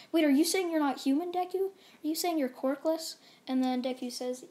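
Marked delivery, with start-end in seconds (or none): 0.1-3.2 high, louder shocked questions; a stunned crowd demanding answers; shocked disbelief. Retold or imitated. Classmates stunned that Deku is not human, shocked.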